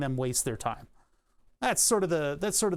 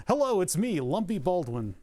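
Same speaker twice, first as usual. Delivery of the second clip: joke celebrity voice; 3 semitones higher than usual. Pretend. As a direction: ham up a celebrity hello. Joke voice of Lumpy Baldwin.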